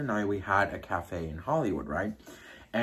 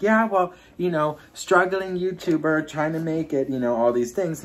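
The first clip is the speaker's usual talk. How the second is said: bright self-mocking reply; 5 semitones higher, 5 dB louder than usual. Retells her own self-deprecating reply.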